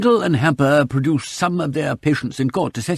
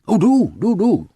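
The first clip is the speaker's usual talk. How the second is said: eager; 9 semitones higher, 5 dB louder than usual. A narrator's reading. Host eagerly urging the bottle.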